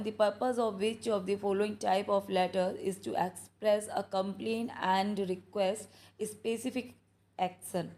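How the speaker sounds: slow, drawn-out question reading; slow dictation reading. Shown as a demonstration. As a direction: read each word clearly for the class. Reading question aloud slowly. (धीमे-धीमे प्रश्न पढ़ना)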